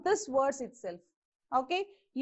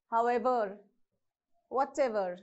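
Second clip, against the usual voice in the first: However and whatever stressed on the ever part; howEVER, whatEVER, However and whatever each said separately; 4 semitones lower than usual. Shown as a demonstration. Teacher repeating However, whatever, stress on ever. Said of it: "you have to stress on the ever part".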